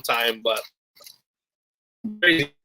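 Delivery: choppy breaking-up call audio; bad connection. Real, not acted. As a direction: voice cutting in and out over a bad line. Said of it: "Oh, Bob, you're breaking up".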